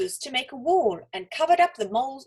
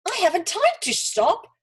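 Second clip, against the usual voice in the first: shouted; 8 semitones higher, 4 dB louder than usual. A narrator's reading. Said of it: "shouted Olga".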